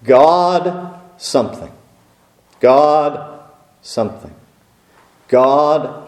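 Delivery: slow, measured, God stressed each time; pattern reading. Shown as a demonstration. Preacher demonstrating the Hebrew pattern to the congregation, slow and even. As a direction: tap out the repeated God pattern. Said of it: "we would read the following pattern".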